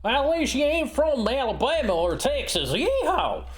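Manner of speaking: put-on stereotypical Southern accent. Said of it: "Southern accent".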